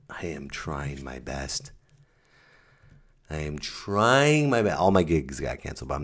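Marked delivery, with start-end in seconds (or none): 0.1-1.7 "I am trying my best" softer, slow, low and resigned; soft, slow, defeated. Shown as a demonstration. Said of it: "repeated in two ways". 3.3-4.8 "I am trying my best" higher and slow, pleading; pleading, raised. Shown as a demonstration. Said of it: "repeated in two ways".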